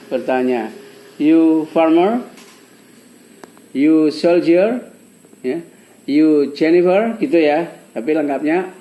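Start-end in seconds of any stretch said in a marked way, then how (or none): 1.2-7.2 slow, rising question on each short phrase. Shown as a demonstration. Teacher showing students how to ask without are, rising question. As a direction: ask it with a clear upward lift at the end. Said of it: "Dengan nada bertanya".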